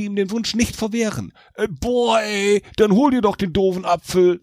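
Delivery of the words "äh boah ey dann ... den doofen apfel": annoyed devil voice, pitched up; an exasperated devil, higher and cheeky. A narrator's reading. Devil grumbling at Jack to fetch his own apple. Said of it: "sagte der Teufel".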